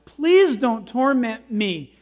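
slow, emphatic mock plea; drawn-out plea with a touch of fear; afraid, praying. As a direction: beg slowly for mercy, lightly acted. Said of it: "he's praying to Jesus now".

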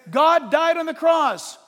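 slow, loud preaching proclamation; preaching shout. Real, not acted. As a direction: proclaim it slowly, full voice. Preaching climax.

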